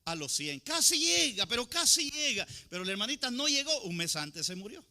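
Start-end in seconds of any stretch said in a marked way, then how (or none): 0.0-2.5 mourners' lament. Retold or imitated. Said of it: "la gente decía".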